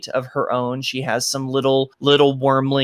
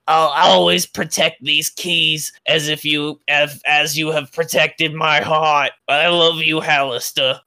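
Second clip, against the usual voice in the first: dragon's tender farewell vow; 2 semitones higher, 3 dB louder than usual. Acted. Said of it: "she's like".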